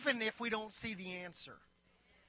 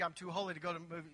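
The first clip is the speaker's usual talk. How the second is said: mock pious; 6 semitones lower, 7 dB quieter, much faster than usual. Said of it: "I'm playing with y'all".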